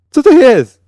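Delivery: high, loud panicked shriek; shrill shriek. A narrator's reading. Mick shrieks at the man shooting the wounded, high and loud. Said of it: "wrzasnął piskliwym ze zdenerwowania głosem".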